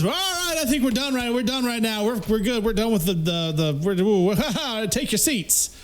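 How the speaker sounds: high, hurried teacher stopping the fight; a teacher scrambling to calm the class; flustered teacher. Retold or imitated. Bible teacher nervously breaking up the fight, high voice.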